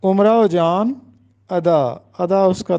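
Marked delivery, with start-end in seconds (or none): 0.0-0.9 امراؤ said as "umrao" with a u; امراؤ جان spoken "umrao jaan"; correct pronunciation. Shown as a demonstration. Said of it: "جو کہ غلط ہے".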